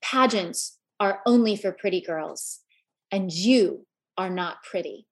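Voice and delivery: a hint of a spiteful step-grandmother; cold step-grandmother. Step-grandmother belittling the little girl, low cold put-down. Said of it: "with evil in her eyes".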